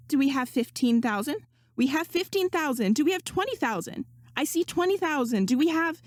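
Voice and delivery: a hint of an auction host calling out; lightly voiced auctioneer calling bids. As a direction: rattle off the bids like a hostess.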